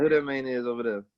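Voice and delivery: "man" pronounced "main"; local MAN. Shown as a demonstration. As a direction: stretch "man" into a long ay. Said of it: "But I would be like".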